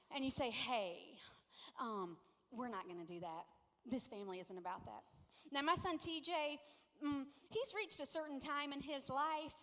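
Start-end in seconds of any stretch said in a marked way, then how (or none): 0.5-5.0 low, soft parental correction; nicely firm. Acted. Parent pulling a child aside, nicely firm. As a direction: gently set the family rule. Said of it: "pull them nicely aside".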